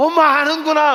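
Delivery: high, loud sobbing through the words. Acting out a child eating stew, imitating crying while talking. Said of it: "하면서 막 울면서".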